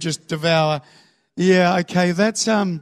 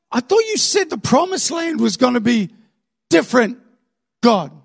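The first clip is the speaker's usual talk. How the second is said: higher, louder mock protest; indignant complaint; 4 semitones higher, 3 dB louder than usual. People looking at their present and complaining to God, indignant. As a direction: break it up to press the grievance.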